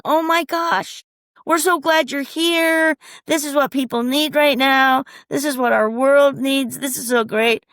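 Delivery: gushing crowd. Retold or imitated. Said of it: "they said the same thing".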